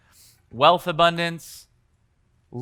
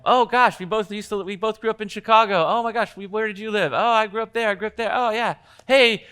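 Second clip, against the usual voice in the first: higher, gushing chatter between new friends; excited small talk; 5 semitones higher than usual. Retold or imitated. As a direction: play two strangers thrilled to share Chicago. Acting two people bonding over Chicago.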